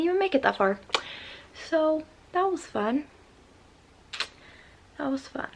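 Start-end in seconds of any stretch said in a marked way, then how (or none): 1.7-3.0 higher, mocking sarcasm; sarcastic. Real, not acted. Sarcastic wrap-up of bad story. 5.0-5.5 softer, flat repeat under the breath; deflated echo. Real, not acted. Sarcastic wrap-up of bad story.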